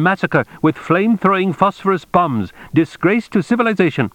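high-pitched outraged official; indignant phone tirade. A narrator's reading. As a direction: berate them in a high, indignant voice.

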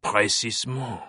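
smug French inspector, satisfied. Acted. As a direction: savor it with a smug smile. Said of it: "a smug smile crossed Fache's lips".

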